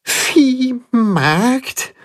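shaky frightened question; trembling voice. A narrator's reading. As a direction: voice quivering with fear. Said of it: "mit zitternder Stimme".

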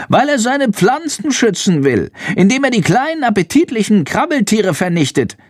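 high squeaky creature voice; bat voice. A narrator's reading. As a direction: explain grimly in a tiny high voice. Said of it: "raunt Chandor".

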